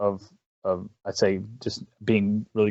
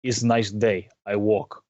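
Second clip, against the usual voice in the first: lightly imitated Russian accent; slower than usual. Player imitating his friend's accidental slip into a Russian accent. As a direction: retell it in a mock Russian accent. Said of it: "accidentally busts into a full Russian accent".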